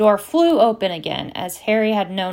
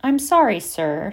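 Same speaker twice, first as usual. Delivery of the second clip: "sir" set apart at the end; stress on SIR; 2 semitones higher, 4 dB louder than usual. A narrator's reading. Harry apologising to Hagrid, pointed stress on "sir". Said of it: "emphasizing the last word".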